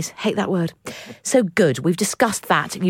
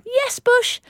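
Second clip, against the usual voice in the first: emphatic yes. Real, not acted. Emphatic answer about tipping carolers.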